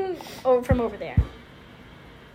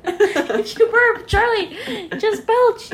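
higher, louder urging through laughter; mock-urgent coaching, pitched up; acted film quote; 6 semitones higher, 7 dB louder, much slower than usual. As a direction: imitate a character urging, half laughing. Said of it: "then they're like".

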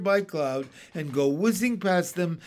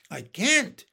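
helpless cry; 4 semitones higher than usual. Acted. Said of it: "cried James".

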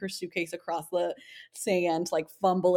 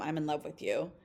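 soft whisper; 4 semitones lower, 6 dB quieter than usual. Retold or imitated. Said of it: "she, like, whispers to him".

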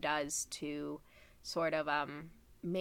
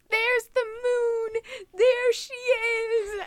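excited cry; 9 dB louder, slower than usual. Retold or imitated. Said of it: "Alyssa looks out over the lake and goes".

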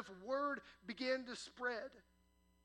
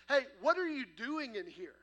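put-on loud parents catching the kids; shocked parents; 11 dB louder than usual. Parents walking in on a house party, shouting. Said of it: "they say".

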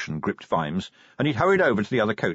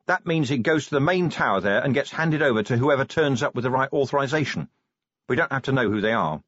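lightly voiced constable, raised pitch at first; reporting special constable; 4 semitones higher than usual. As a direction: give a dutiful report to a superior.

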